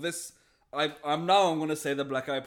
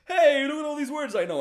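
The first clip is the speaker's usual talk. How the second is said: show-off language learner; 11 semitones higher, 7 dB louder than usual. Retold or imitated. Mocking language learner showing off.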